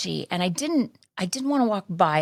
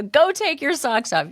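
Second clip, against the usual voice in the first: higher-pitched imitated order; mild mock scolding; 7 semitones higher than usual. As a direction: repeat the shop owner's order as a milder mock scold. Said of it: "she goes".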